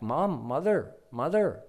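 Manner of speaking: put-on high, insistent little boy; child calling mother. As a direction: keep tapping at her with the word.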